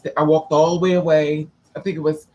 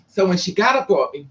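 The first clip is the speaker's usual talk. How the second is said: ordinary talk, nothing marked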